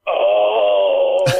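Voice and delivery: long, loud mock wail; hammed-up moan after a bumped head; imitated pained "oh".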